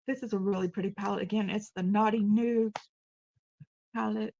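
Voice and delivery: talking through burps; burpy, interrupted speech; burping the words. Real, not acted. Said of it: "Sorry, I'm burping a lot".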